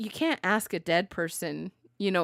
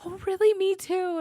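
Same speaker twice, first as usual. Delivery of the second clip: eager coworker; 11 semitones higher than usual. Retold or imitated. Coworker quoted, eager agreement.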